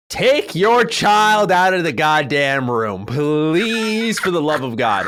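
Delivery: slow, drawn-out rant at a parent; exasperated plea. Acted. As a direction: plead slowly, fed up, stretching the words. Ranting at parents of crying kids.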